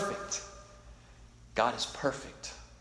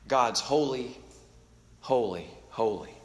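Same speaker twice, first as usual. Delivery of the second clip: reverent hush; 5 semitones lower, 6 dB quieter than usual. Shown as a demonstration. Preacher pausing his congregation in awe, lower and much softer. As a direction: drop to a hushed awe on each holy. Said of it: "to make us stop and pause".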